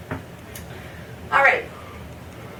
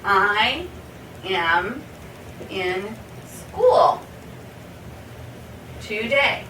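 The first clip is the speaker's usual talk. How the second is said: words set apart by pauses; slow word by word; much slower than usual. Shown as a demonstration. Teacher showing the other word order, slowly. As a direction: model it slowly for learners. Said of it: "Or you could say".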